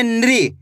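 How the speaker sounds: नृ said as one syllable "nree"; teacher's model नृ, n and r joined; demonstrated NRI sound. Shown as a demonstration. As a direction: run n straight into ri in नृ. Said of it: "तो कैसे पढ़ेंगे?".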